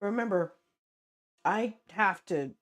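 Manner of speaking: usual speaking voice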